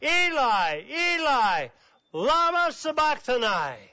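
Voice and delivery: high, loud anguished cry; Jesus crying out on the cross. A narrator's reading. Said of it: "cried with a loud voice".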